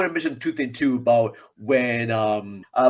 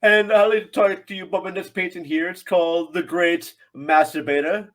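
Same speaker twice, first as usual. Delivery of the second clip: a light, higher-pitched hint of a pompous artist; lightly mocking art-festival pomp; pompous Salvador Dali; 5 semitones higher, 4 dB louder than usual. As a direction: play the self-important painter pitching his work. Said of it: "I just wanna see Salvador Dali at a pompous".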